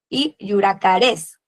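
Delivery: yuracarés said slowly with the stress on the final é; slow teacher demo: yuracarés stressed at the end; stress on last syllable. Shown as a demonstration. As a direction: stretch yuracarés, land on the last é. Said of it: "así en el acento en las últimas".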